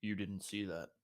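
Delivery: hushed shushing, then a soft warning; finger on lips. Acted. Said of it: "puts his finger to his lips".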